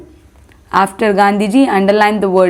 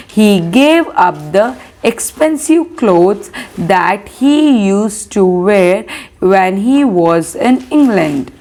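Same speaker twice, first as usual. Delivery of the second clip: put-on slow, measured reading for young pupils; slow classroom dictation pace; textbook read-aloud; slower than usual. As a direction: read it out word by word so children can follow. Teacher reads textbook aloud.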